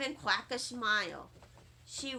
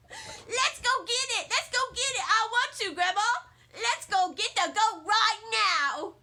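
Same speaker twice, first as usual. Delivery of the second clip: put-on high, loud, eager kid voice; a child bursting with excitement over a goat; squealing little girl begging grandma; excited little girl; 5 semitones higher, 3 dB louder than usual. Junie thrilled about a goat.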